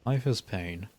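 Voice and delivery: flat, heavy, mock-tragic delivery; melodramatic monotone. Shown as a demonstration. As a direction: say it deadpan, like a tragic sigh. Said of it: "I say that in the most melodramatic, monotone voice possible".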